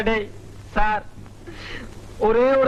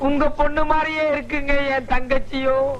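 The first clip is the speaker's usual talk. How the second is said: tearful; 3 semitones higher than usual. Acted. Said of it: "அழாதப்பா".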